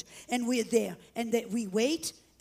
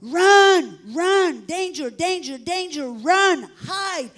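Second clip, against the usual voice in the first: urgent, high emergency shout; imitating a loud danger alarm; retold shouted alarm; 4 semitones higher, 9 dB louder, slower than usual. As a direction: cry out each warning word, pitched high. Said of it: "we hear again".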